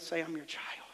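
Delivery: mother's advice murmured softly; under the breath. Retold or imitated. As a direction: say it quietly under your breath. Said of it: "say under your breath".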